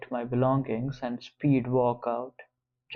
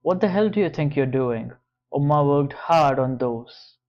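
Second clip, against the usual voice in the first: fast, loud outrage; angry; 5 dB louder than usual. Acted. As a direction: tell him off hotly. Confronting George after the boxes fall.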